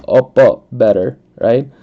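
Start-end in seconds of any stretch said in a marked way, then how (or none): 0.0-0.6 loud attempt at a Filipino accent. Shown as a demonstration. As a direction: show off the Filipino accent, louder. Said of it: "I feel like I do, like".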